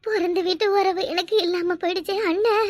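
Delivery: put-on tearful plea; mock lament. Sister mourning her lost birth-home tie to brother, feigned sobbing. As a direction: wail it theatrically to your brother.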